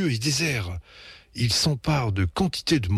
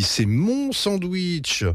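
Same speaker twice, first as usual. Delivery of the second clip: yelping protest; 9 semitones higher, much slower than usual. A narrator's reading. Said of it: "glapit Betty".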